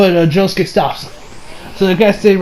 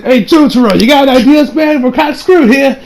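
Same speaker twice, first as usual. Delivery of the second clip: higher-pitched acted plea; worried plea; 7 semitones higher, 3 dB louder than usual. Retelling Josuke asking Jotaro for ideas, worried plea. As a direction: call to your partner for ideas, voice raised in pitch.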